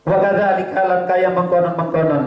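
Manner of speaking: measured chanted reading of the Arabic text; kitab recitation. Acted. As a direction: recite the kitab line like a pesantren teacher. Reads kitab line in chant.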